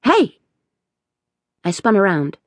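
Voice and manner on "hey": sharp high startled cry; startled yelp. Acted. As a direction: jump and yelp in fright. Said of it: "I gave a startled yelp".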